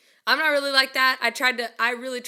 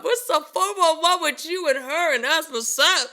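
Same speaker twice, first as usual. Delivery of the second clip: incredulous echo; 5 semitones higher than usual. Retold or imitated. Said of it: "I was like".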